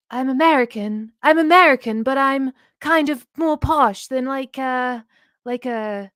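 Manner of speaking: put-on loud, posh transatlantic accent of old Hollywood; hammed-up transatlantic accent like an old Hollywood star. Shown as a demonstration. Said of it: "the hardest one is, like, transatlantic".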